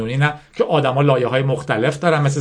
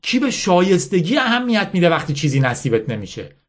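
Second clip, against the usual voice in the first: higher-pitched insistent lecture, lightly acted; bitter General Mala; 5 semitones higher than usual. Mala lecturing Yasmin on winners and losers, mildly bitter insistence. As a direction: drive the hard lesson home. Mala scorns the idea of merit.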